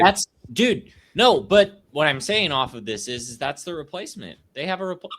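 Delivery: high squeaky voice broken by hiccups; hiccuping, voice squeaking up high. Real, not acted. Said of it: "Did you just squeak?".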